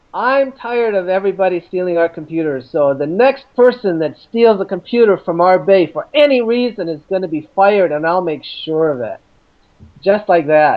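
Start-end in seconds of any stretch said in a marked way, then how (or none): none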